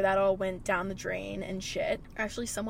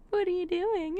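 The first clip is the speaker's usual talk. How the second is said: imitating her dad; 9 semitones higher than usual. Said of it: "smiling and just like".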